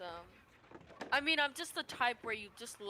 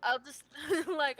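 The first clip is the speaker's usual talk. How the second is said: laughing; 4 semitones higher, 4 dB louder than usual. Real, not acted. Laughing mid-sentence.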